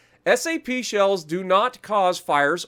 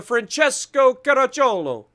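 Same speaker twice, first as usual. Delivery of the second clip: Francesco Caracciolo higher and louder, in a mock Italian accent; Italian accent attempt; 5 semitones higher, 3 dB louder than usual. Shown as a demonstration. Gamer showing off his best Italian accent to viewers, mock Italian. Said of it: "the best Italian access I, or accent".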